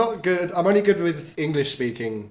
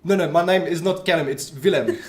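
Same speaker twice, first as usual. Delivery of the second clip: put-on South African accent. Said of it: "Can you tell us what you do in South African then?".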